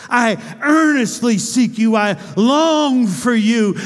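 earnest longing. Acted. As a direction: stretch out each word with yearning. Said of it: "Notice he says".

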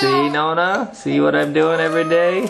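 mock crying. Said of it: "I'm crying and throwing everything".

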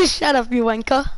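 cheeky fake British accent; put-on British accent. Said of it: "What, what accent is this?".

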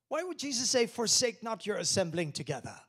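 loud, high, forceful call; loud preaching. Acted. Pastor pressing the congregation, loud preaching.

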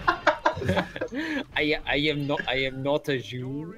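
put-on slow, fading German accent as he gives up; a trailing-off try at the German accent; mock German accent. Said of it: "there's the Nazi German accent".

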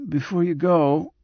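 insistent whisper. A narrator's reading. Patient stops doctor from leaving, mildly insistent. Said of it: "whispered the voice insistently".

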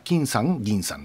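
金さん and 銀さん as two separate accented words; 分けた発音. Shown as a demonstration. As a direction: give 金さん and 銀さん each its own accent. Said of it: "分けて言ってました". (「金さん」「銀さん」と区切って)

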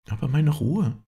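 hoch und lauter ausgerufen; rufend. Acted. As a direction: verzweifelt aufrufen, hoch und laut. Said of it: "rief Clotilde". (Clotilde ruft ihrer Freundin hoch und laut zu)

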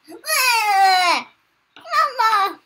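put-on wailing baby. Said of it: "they're like".

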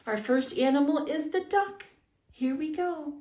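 bright, gentle storytime voice; reading to a toddler. Acted. Children's storytime host.

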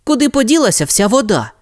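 high, alarmed oh no; shocked pup finding an empty pool; Rocky finds the pool empty, alarmed; dismayed surprise. Acted. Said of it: "спитав Рокі".

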